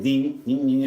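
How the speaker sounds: quick little ringing "ding" noises; imitated twirling noise. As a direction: sound effect for hair springing into knots. Imitates hair knotting up.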